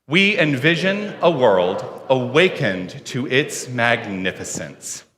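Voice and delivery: slow, measured vision statement; deliberate, spaced-out words for joining in; group recitation. Real, not acted. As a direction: lead a congregation reciting together. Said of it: "saying the words of our vision statement".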